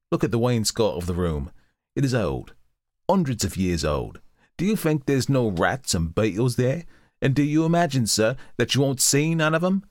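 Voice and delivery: a lightly voiced old charwoman, dismissive; scornful charwoman. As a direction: scoff at the fears, common and sure. Charwoman scoffs at ghosts.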